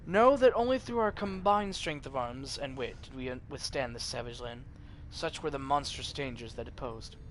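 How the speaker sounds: put-on grand old-world narrator setting the scene; epic lore narration. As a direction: read it like an ancient chronicle. GM reads epic intro lore.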